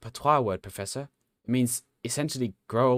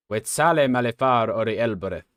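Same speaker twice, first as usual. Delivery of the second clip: robot; 6 dB louder than usual. Acted. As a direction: intone it like an ancient machine. Robot recites ancient words.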